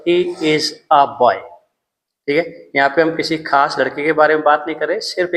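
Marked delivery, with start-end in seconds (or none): 0.1-1.3 each word laid out slowly for the class; slow example sentence. Shown as a demonstration. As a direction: read "he is a boy" slowly and evenly, like a teacher. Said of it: "for example". (धीरे-धीरे उदाहरण वाक्य)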